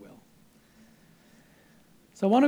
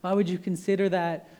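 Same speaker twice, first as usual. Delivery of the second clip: imagined anger; 5 semitones higher, 3 dB louder than usual. Pretend. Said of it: "He could have been angry and said".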